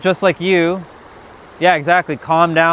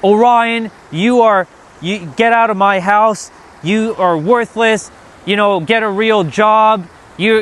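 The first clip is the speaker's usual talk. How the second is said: raised, higher voice in a retold drunk rant; imitating drunk yelling; 5 semitones higher than usual. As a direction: replay the father's screaming rant, toned down but heated. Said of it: "Robin screaming outside and yelling".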